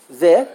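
"Vi" said alone as a separate syllable; single syllable. Shown as a demonstration. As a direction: give just the syllable Vi by itself. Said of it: "How many syllables are there?".

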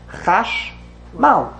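slow Chash, pause, then MAL; stress on last syllable. Shown as a demonstration. Teacher explaining the grammar rule, Chash-MAL in slow beats. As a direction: split Chashmal and land on "mal". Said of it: "emphasis on the last syllable".

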